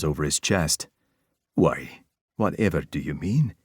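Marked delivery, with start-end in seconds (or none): 1.5-3.5 mock innocent. A narrator's reading. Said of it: "Sterling asked innocently".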